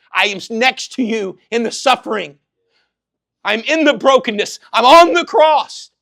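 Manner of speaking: rising from firm to a high, loud cry; climbing pulpit declaration; building proclamation. Acted. Voices God's answer, building.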